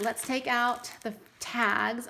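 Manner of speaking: usual speaking voice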